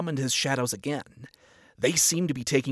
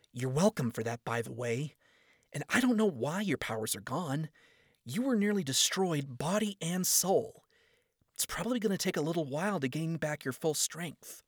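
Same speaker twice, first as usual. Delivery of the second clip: a hint of a higher, exasperated young woman; lightly voiced Charlie; 4 semitones higher, 4 dB quieter than usual. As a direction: set him straight, kindly tired. Charlie explains.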